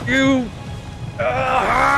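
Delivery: sudden high anime battle scream. Acted. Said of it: "get my anime scream in there somehow".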